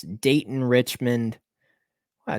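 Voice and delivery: usual speaking voice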